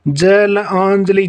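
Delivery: जलांजलि stretched slowly syllable by syllable; slow pronunciation demo. Shown as a demonstration. Teacher spelling out जलांजलि slowly for the class. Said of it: "यानी कि अशुद्ध और शुद्ध".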